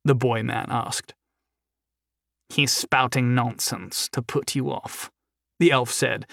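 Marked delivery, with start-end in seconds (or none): 2.5-5.1 a hint of a creepy elf, soft and slow; lightly voiced sinister elf, slowed down. Elf warns his partner about the prisoner, lightly creepy and slow. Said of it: "in a voice as creepy as the rest of him".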